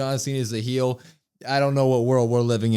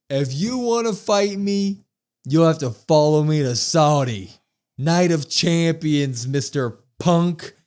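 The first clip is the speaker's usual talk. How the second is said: slow, louder taunting challenge; mock Cena challenge; 4 dB louder, slower than usual. Host acting Cena daring Punk to follow him, slow and loud. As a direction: draw it out like a heel's dare.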